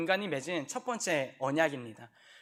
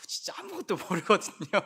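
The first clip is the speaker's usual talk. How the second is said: laughing through the line; amused laugh; 4 semitones higher than usual. Real, not acted. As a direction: chuckle as you say it. Laughing at young people's ignorance.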